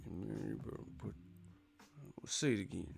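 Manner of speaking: hushed, half-swallowed mock threat; angry mumbling. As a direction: mumble it through a tight, pursed mouth. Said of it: "enunciating and shit".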